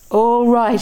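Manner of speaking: high, angry holler. A narrator's reading. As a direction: bark it as a challenge. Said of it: "he hollered".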